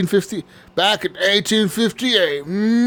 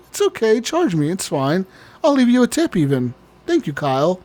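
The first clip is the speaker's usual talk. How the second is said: overly polite shopper; 5 semitones higher than usual. Pretend. Polite Target shopper parody.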